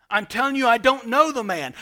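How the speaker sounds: Peter. Retold or imitated. Preacher voices Peter denying Jesus again, loud and insistent. Acts Peter's escalating second denial.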